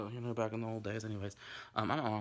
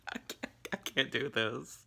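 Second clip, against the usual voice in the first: laughing whisper; 5 semitones higher, slower than usual. Real, not acted. Breaks down laughing.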